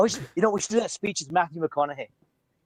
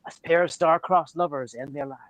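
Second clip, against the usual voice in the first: Shakespeare recital; slower than usual. Acted. Recites Romeo and Juliet prologue.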